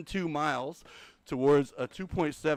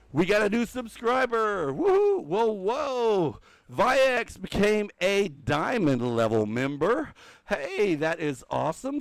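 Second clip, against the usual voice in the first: much higher and louder, thrilled announcement; excited cheer; 9 semitones higher, 8 dB louder, slower than usual. Real, not acted. Streamer to chat celebrating a new member, loud excited cheer. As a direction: cheer for the new subscriber, big and bright.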